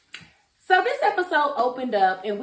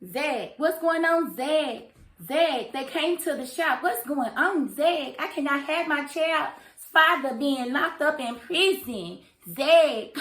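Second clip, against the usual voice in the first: mock pleading girlfriend; 4 semitones higher, slower than usual. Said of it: "went and found Zach".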